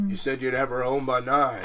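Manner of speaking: a hint of an American dad, laughing; lightly voiced protective father. Spider as a shotgun-toting dad warns the date, lightly voiced. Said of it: "like someone's American dad with a shotgun".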